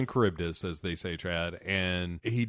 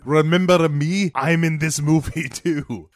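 hammed-up plaintive voice; 5 semitones higher, 6 dB louder than usual. Voicing the crew in the scene.

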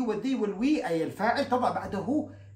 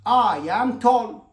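I am tall, very slow and louder; slow model sentence; 2 semitones higher, 8 dB louder, much slower than usual. Shown as a demonstration. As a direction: stretch each word for the class. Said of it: "طيب". (نطق بطيء وواضح)

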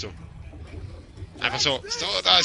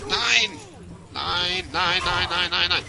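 panicked no; 3 semitones higher, slower than usual. Real, not acted. Panicking under enemy fire.

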